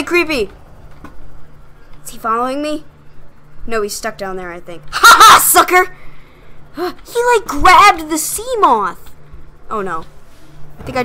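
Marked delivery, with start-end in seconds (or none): 4.9-5.9 laughing taunt. Real, not acted. Taunting escaped monster.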